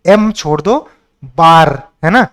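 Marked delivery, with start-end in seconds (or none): 0.1-0.3 "एम" set apart as its own chunk; broken-up syllable. Shown as a demonstration. Teacher breaking up embarrassing for students, "एम" as a separate syllable. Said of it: "इसको भी ऐसे break कर लो". 1.4-1.7 "बार" set apart as its own chunk; broken-up syllable. Shown as a demonstration. Teacher breaking up embarrassing for students, "बार" as a separate syllable. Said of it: "इसको भी ऐसे break कर लो".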